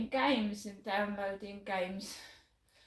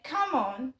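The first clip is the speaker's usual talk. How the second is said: retold call to a dog, a bit louder; 5 dB louder than usual. Neighbour to his dachshund at the door, mock calling. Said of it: "to the dog".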